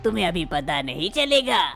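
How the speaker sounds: the old man calming his jealous wife, a hint of gentleness; father-in-law voice.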